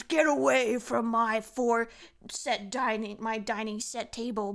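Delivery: mock berserk. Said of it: "just gonna go full, full ape shit".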